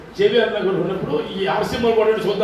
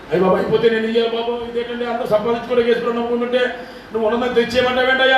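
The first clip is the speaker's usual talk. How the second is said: grumbling giver; faster than usual. Pretend. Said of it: "అన్నట్టు ఉండదు".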